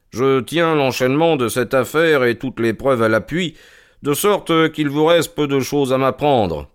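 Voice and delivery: lightly voiced, self-assured investigator; measured detective's statement; composed detective Holmes. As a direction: lay out the case with calm authority.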